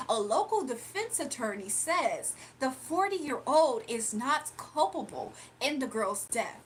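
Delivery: slow, measured anchor read; deliberate newsroom delivery; news read. Acted. Reads a fake news script.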